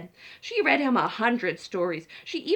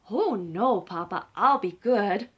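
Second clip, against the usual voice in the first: slow, earnest little chicken promise; a child swearing to behave; sweet promise; 3 semitones lower, 4 dB louder, slower than usual. Acted. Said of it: "Chicken promises".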